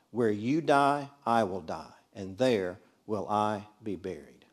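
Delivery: slow, measured Bible reading; scripture reading. Acted. Teacher reading Ruth's vow to the class, measured and solemn. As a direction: read it solemnly, line by line.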